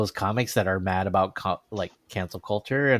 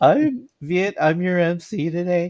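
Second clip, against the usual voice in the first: put-on nervous starstruck fanboy tone, higher; 9 semitones higher, 4 dB louder than usual. Retelling meeting a favorite comedian: imitating own nervous fanboy tone. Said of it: "I was total fanboy talking to him".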